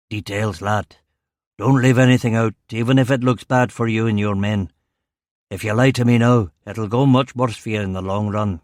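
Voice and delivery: stern Govan police chief, lightly voiced; Strong. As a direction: warn a subordinate in a Govan accent. Narrator voices the chief superintendent.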